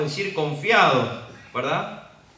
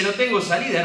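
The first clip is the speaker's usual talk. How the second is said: despairing servant; 7 semitones higher, 6 dB louder than usual. Acted. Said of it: "Este hombre mira a su alrededor y dice".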